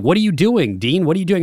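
a lightly voiced victim asking in alarm; panicked John C. Reilly. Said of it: "And he'd be like".

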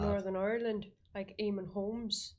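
attempted Northern Irish accent. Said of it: "Northern Irish is dead hard".

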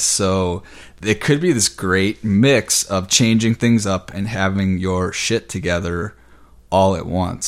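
breathless after a long rundown; short on air, winding down; out of breath. Real, not acted. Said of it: "I'm a little out of breath".

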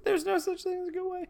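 squeaky high mock voice; high put-on voice. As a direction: pitch it way up as a joke. Joke line in put-on voice.

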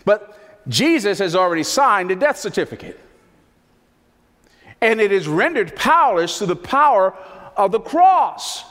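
high, loud, rising preacher's cry; impassioned pulpit delivery; full-force preaching. Acted. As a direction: preach it out, voice climbing. Preacher building to climax.

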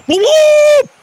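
very high loud shouted blub; fish man exclaims. Acted. Fish man bursts out after drinking, very high shout. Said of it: "Og så udbryder han".

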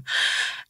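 soft breathy nervous laugh; a quick unvoiced nervous chuckle. Real, not acted. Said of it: "that's a nervous laugh that I just gave you".

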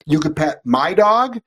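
slow, drawn-out sarcastic disbelief; sarcastic mock question. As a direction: drag it out to mock the logic. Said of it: "It's like".

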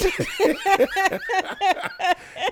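squealing high laugh; real laugh. Real, not acted. Laughing at leg shake.

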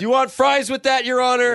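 waiter voice. Pretend. Waiter addressing judge.

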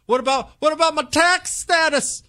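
high-pitched mockery of a fretting pastor; mocking whiny pastor. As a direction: squeal the excuse in mock alarm. Mocking timid pastors' excuse.

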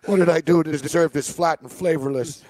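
lightly voiced offended mobster; mobster impression. Mobster griping to the bartender about his bad drink, lightly voiced. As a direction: complain about the drink like a wounded mob guy. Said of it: "I do a good impression of the mobster".

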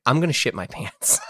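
amused retold confession; desperate admission, told with a laugh; laughing through it. Real, not acted. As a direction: let a laugh break into the line.

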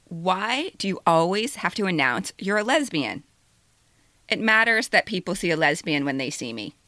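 steady measured reading over music; essay reading. Acted. Author reading her own essay aloud to the audience. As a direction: read it calmly to listeners.

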